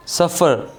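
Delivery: सफ़र with weight on SUF, light falling -fer; unstressed final R. Shown as a demonstration. Teacher demonstrating an unstressed ending, सफ़र as SUF-fer. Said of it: "आर पे stress नहीं होता".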